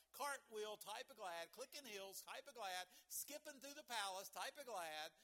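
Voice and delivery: building excitement. Real, not acted. Preacher builds joyful image.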